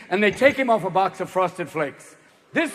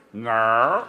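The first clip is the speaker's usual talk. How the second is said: dumb deep Bubba; 9 semitones lower than usual. Acted. Steroid user Bubba denies.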